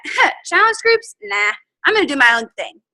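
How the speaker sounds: high, breezy mock shrug of a voice; imitating Jen. Coach imitating colleague to her team, carefree high mock voice. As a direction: lightly play the colleague who brushes off the rules. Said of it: "she's looking at all of us going like".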